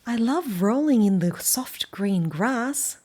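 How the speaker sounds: slow, loud, happy dog; Banjo storybook voice. Acted. Reader as Banjo telling children about the grass, slow and bright. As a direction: savour each word for the kids. Banjo line read aloud.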